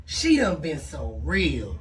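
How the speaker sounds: low, slow little bug voice. Pretend. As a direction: creep it out like a bug. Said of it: "Let me get in my bug voice".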